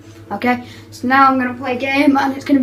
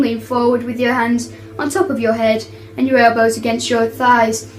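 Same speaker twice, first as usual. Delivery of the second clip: playful cabin crew announcement voice; flight attendant. Pretend. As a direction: read it like an airline PA announcement. Kid doing cabin announcements.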